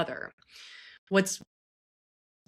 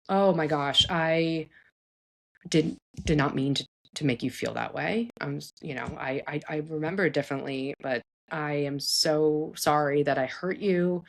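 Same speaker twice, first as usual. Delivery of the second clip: sincere apology. Shown as a demonstration. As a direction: apologise gently and earnestly, taking time on the sorry. Models an empathetic apology to child.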